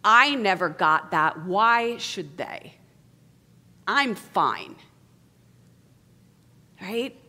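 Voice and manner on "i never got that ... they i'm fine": hurt beneath contempt. Acted. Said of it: "underneath the contempt is".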